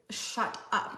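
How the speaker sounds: breathy disbelieving whisper; barely voiced delight; whispered shut up. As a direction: hiss it out in awe.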